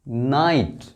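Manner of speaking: नाइट drawn out as one syllable, no G or H; silent GH. Shown as a demonstration. Teacher introducing a new word to learners, नाइट with silent GH. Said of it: "यहाँ जी और एच silent है".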